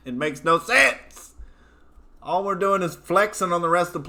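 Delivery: lightly voiced redneck ranter, gruff and blunt; a hint of a hillbilly pundit holding forth; hillbilly character. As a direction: rant like a backwoods good ol' boy. In-character hillbilly rant on foreign bases.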